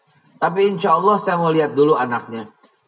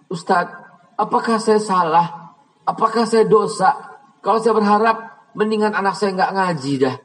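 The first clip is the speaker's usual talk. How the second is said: tearful mother; 4 semitones higher than usual. Retold or imitated. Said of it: "Sampai nangis".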